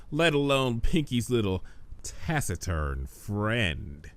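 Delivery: lightly voiced sly spirit; smug Discord.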